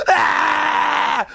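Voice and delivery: sudden high shrieking yelp imitating the jogger; mock scream. Mocking a jogger who screams into her phone, high shriek. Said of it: "screams at the top of her lungs".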